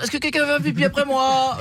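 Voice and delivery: slow, high, drawn-out polite question; polite announcement. Retold or imitated. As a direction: ask the room slowly and politely. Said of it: "je précise toujours".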